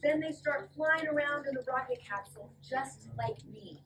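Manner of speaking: lively storybook read-aloud; reading to children. Acted. Teacher reading a fly's story to the class, lively. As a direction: read it brightly to a room of kids. Reading picture book to kids.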